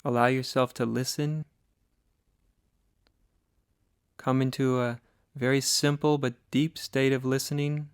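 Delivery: calm, slightly softened meditation voice with long pauses; guided meditation. Acted. Teacher guiding listeners to sit and breathe, guided meditation. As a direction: ease them gently into listening, leaving long silences.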